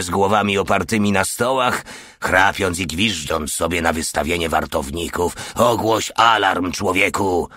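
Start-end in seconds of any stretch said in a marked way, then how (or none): 5.5-7.5 yell. Acted. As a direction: bellow the order. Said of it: "wrzasnął". (generał wrzeszczy na feldwebla, głośny rozkaz)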